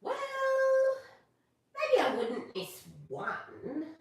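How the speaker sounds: slow, half-laughing hesitation; reluctant fish chuckling; hesitant giving in. Acted. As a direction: drag it out as you talk yourself into it. Rainbow fish gives in.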